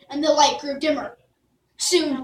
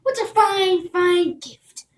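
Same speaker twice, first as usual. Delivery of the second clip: loud, higher, gushing; delighted; 5 semitones higher, 6 dB louder than usual. Acted. Princess praising Jack's gift, loud and gushing. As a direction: beam with pleasure.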